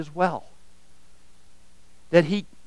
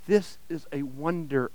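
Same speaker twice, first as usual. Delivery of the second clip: softer, breathed in awe; 2 semitones lower, 8 dB quieter than usual. Acted. Narrator breathes his amazement at the weeping ragman, hushed. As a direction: say it under your breath in wonder. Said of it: "I breathed".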